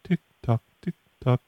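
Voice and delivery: soft clock-like tick tock. Pretend. Prankster waits for caller's answer, quiet clock ticking. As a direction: tick off the seconds quietly, evenly spaced.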